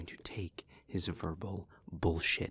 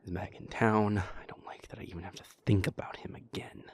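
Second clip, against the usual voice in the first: whispering. Acted. Speaker confides about Porter in a whisper. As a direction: breathe the words out, close and private.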